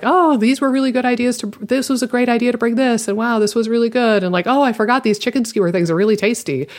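bright, lifted praise of the food; enthusiastic compliments. Retold or imitated. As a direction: gush a little over the snacks. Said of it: "I complimented her".

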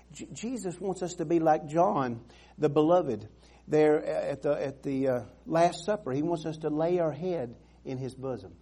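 ordinary delivery

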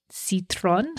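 attempted French accent on citron; bad French accent. Shown as a demonstration. Host giving the stone's French name, in a bad French accent. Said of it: "bad French accent there".

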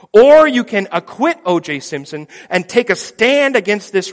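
loud, pleading lawyer to the jury; impassioned plea. Retold or imitated. Lawyer pleads with the jury, loud and urgent. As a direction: press the jury hard, rising and loud.

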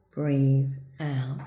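normal talking voice

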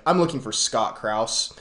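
slow, firm announcement, mildly imitated. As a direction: play the officer stating his business for all to hear. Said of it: "he just says in a firm voice".

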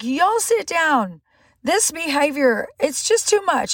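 put-on exasperated parent telling kids off; scolding mom. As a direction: lay down the law to rowdy kids, drawn out. Scolding her rowdy kids, retold.

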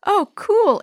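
high, thrilled exclamation; excited kid. Acted. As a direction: burst out with delight. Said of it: "exclaimed Chris".

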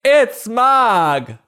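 very high, loud squeaky shout; squeaky cry. Acted. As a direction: squeal the discovery. Child spots cat.

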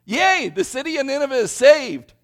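high, loud, hammed-up rejoicing; mock celebration. Preacher mocks the happy-ending reading of Jonah, excited. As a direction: celebrate like the story's over. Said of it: "we all should go like".

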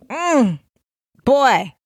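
skeptical mother's inner side-eye; sassy mm boy. Retold or imitated. A mother reacting in her head to her son with a sassy high mm boy.

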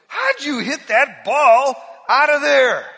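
high, loud, slow mock-accusing question; suspicious brother. Brother on the golf course, loudly incredulous. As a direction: ham up the brother's disbelief. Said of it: "another brother turns to me and goes".

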